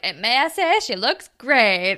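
mock flirty compliment, slowing at the end; imitated flirtatious announcement. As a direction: lay on the public flirting. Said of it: "just being just extremely flirty".

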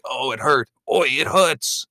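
a hint of Mike saying ouch; Mike impression. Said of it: "Even Mike comments, like".

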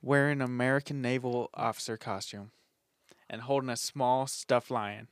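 sultry creepy narration; sexy scary voice. Pretend. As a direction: try spooky, land on sexy. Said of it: "Why do you always get sexy when you try to get scary?".

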